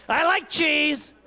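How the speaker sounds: slow, high eerie sleep-talk; creepy sleep talker. Acted. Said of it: "I talk her in my sleep".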